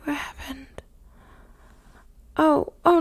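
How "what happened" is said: hushed and concerned, barely voiced; worried whisper. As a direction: whisper the worry.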